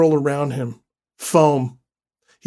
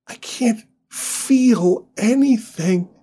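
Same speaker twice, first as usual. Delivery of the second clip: frightened; 8 semitones higher, slower than usual. Acted. Injured wife fading.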